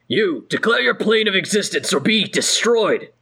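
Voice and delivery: gruff dwarven guard demanding an answer; gruff Azer voice. Acted. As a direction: bark it like a wary fire dwarf. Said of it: "you hear a gruff voice say".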